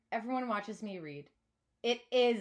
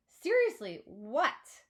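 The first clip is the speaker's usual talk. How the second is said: louder, higher confused demand; exasperated question; 3 semitones higher, 6 dB louder, much slower than usual. A narrator's reading. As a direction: push for an answer, baffled. Confused girl demanding answer.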